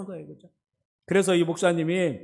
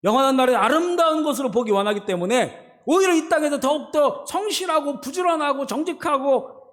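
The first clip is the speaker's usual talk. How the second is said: raised-pitch, insistent pulpit delivery; emphatic preaching; 7 semitones higher than usual. Acted. Preacher urging believers to live for the eternal country, emphatic preaching. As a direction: press the point home in a higher preaching voice. Preacher drives the point home.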